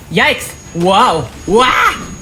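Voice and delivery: high squeaky yelps while dodging; startled yelps. Acted. Zip dodging vines, yelping in high alarm. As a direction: yelp in alarm as the vines lash out.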